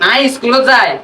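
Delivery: Chittagong Bengali accent; Chittagonian dialect. Shown as a demonstration. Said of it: "তোমাদের ভাষায় কি বলে".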